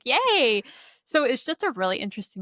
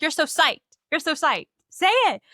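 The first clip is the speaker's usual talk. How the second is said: higher, singsong teasing, peaking on say it; teasing, egging on; 8 semitones higher, 4 dB louder than usual. Retold or imitated. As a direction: goad him playfully, rising to a squeal. Molly egging Ray on.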